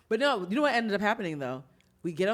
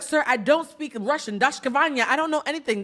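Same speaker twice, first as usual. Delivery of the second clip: fake Russian; 5 semitones higher than usual. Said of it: "saying every Russian word she could think of".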